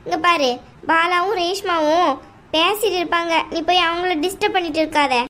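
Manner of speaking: a domineering aunt, coldly dismissive; mother-in-law telling the bride to leave the house, scornful. Acted. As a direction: lay down the law to the unwanted daughter-in-law. Aunt's voice continues.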